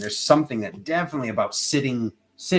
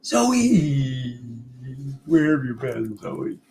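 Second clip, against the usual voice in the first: calling the cat; 3 semitones higher, much slower than usual. Real, not acted. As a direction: call across the room for Zoe. Calling out to pet.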